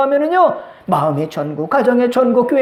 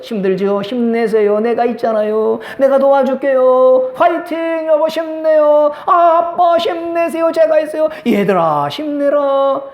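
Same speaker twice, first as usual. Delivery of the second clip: higher, cheering encouragement; encouraging family; 3 semitones higher, slower than usual. Shown as a demonstration. Pastor voicing encouragement to spouse and children, cheerful. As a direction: lift them up warmly. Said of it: "사랑스럽게 가족을 싸매주면서".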